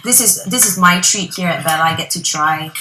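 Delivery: talking with food in mouth; mouth full. Real, not acted. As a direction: speak around a bite of food. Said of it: "Not gonna put too much in my mouth".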